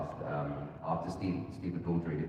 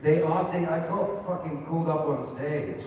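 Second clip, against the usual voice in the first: excited; 10 semitones higher, 7 dB louder than usual. Real, not acted. Excited laughing retelling.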